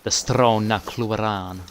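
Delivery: slow Scottish-accented Stronacloran, rolled and falling; mock Scottish accent. Shown as a demonstration. Gamer trying a Scottish accent on a place name. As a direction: lay on a Scottish burr for Stronacloran. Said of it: "say it in a Scottish accent".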